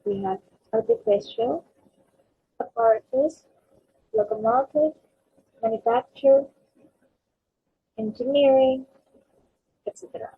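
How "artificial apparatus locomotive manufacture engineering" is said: artificial, apparatus, locomotive, manufacture, engineering, each landing on the third syllable; third-syllable stress. Shown as a demonstration. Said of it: "third syllable".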